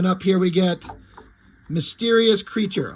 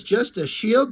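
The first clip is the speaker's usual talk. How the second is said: a touch higher, throwing the words back; offended echo; 4 semitones higher, slower than usual. Acted. The shield echoes Dork's jab, mildly offended. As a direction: repeat the insult back, hurt and indignant.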